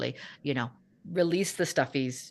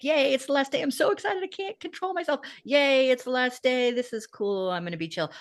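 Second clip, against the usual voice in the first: put-on high, bouncy, giddy little-kid cheer; excited kid; 7 semitones higher, 3 dB louder than usual. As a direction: play a kid thrilled it's the last day. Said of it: "people react differently, like".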